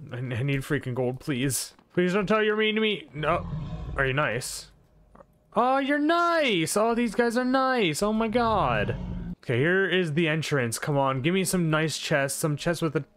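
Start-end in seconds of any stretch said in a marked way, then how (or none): 5.6-9.0 high, drawn-out relieved exclamation; relieved surprise. Real, not acted. Player finds these guys are nice, relieved surprise. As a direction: let relief pour out, pitched way up. Feared mobs turn out friendly.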